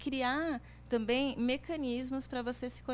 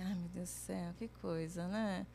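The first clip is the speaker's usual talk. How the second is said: low, softer sigh of boredom; mock weary exasperation; 5 semitones lower, 4 dB quieter than usual. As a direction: play the listener worn out by a tedious list. Weary reaction to the dull list.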